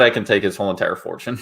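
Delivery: laughing mock quote. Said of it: "mocking Peter Quinn, laughing".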